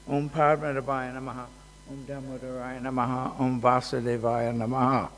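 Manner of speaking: steady, even chant of the names; mantra recitation. Acted. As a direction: recite each mantra evenly, like a prayer. Recites the twelve tilak mantras.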